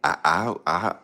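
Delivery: stammering boxer bravado; halting tough-guy boast; imitating James Toney. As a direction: lightly mimic a punch-drunk fighter. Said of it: "you know how James Toney talk".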